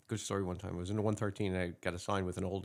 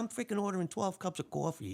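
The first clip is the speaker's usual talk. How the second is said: much higher-pitched indignant rant; pissed off; 9 semitones higher than usual. Acted. Older cop refusing to recite coffee orders, indignant. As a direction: act out an outraged older colleague, high voice. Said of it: "he's all pissed off".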